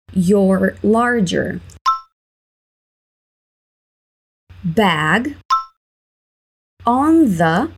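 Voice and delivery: "your larger bag on the scale" slow, word by word; slow build-up. Shown as a demonstration. Teacher building the check-in request for students, slow. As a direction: lay each word down slowly with pauses. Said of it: "Please put".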